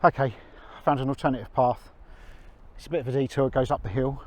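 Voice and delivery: panting a little from the climb; breathless after walking uphill; out of breath. Real, not acted. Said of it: "which is why I'm a little bit out of breath".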